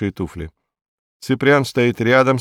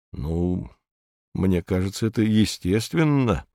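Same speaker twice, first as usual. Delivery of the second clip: easygoing, softer; calm and benign, half-amused; good-natured; 2 semitones lower, 4 dB quieter than usual. Acted. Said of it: "благодушно произносит Нурлан". (благодушно, мягко)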